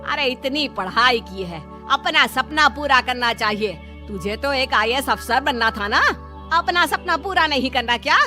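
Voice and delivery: mother-in-law's stern lecture; exasperated nagging, not shouted; flaring up. Acted. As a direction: scold her with a touch of anger. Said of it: "ज्यादा भड़क जाती है".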